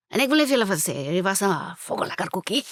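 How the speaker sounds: lightly voiced Afrikaans uncle; broad South African accent. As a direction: quote the oom's praise in broad Afrikaans. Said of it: "and he's like".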